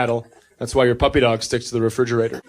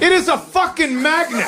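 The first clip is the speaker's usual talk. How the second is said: put-on much higher, snapping at the kid; exasperated outburst; 13 semitones higher than usual. Father losing it at his daughter's repeated question, exasperated outburst. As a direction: patience finally gone, blurt it out. Dad loses patience with child.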